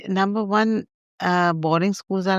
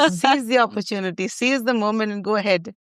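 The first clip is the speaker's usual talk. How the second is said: laughing; 4 semitones higher than usual. Real, not acted. Laughing over "carpe diem.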